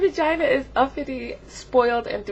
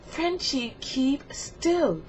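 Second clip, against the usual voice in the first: higher, softer warning; mock pleading; 4 semitones higher, 4 dB quieter, much slower than usual. Telling Frenchie to keep still, pleading. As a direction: plead for someone to behave.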